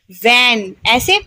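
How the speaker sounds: वैन said slowly, buzzing the व; teacher sounding out वैन; slow v demo. Shown as a demonstration. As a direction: draw out वैन with the lip vibration. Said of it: "वी में vibrate होगा".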